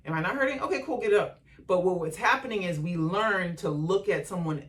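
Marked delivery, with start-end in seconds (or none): 0.1-1.4 higher mock kid voice; a hint of a kid brushing off a fall; imitating the kid. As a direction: play the kid shrugging it off. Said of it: "the kid should be like".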